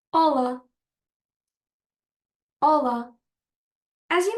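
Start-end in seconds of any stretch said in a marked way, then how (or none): 0.1-0.6 "Ola" modelled clearly in European Portuguese; European Portuguese pronunciation. Shown as a demonstration. Teacher repeating the greeting for learners, European Portuguese pronunciation. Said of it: "in European Portuguese". 2.6-3.1 "Ola" modelled clearly in European Portuguese; European Portuguese pronunciation. Shown as a demonstration. Teacher repeating the greeting for learners, European Portuguese pronunciation. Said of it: "in European Portuguese".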